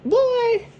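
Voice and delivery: high incredulous laugh. Real, not acted. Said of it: "incredulous reaction".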